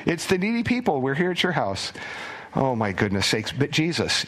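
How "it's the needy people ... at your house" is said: cheery needy crowd. Pretend. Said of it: "smiling people going".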